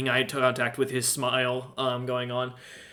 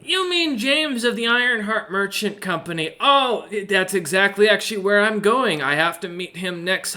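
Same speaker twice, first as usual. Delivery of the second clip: merchant voice; 6 semitones higher than usual. Acted. Merchant answers quickly.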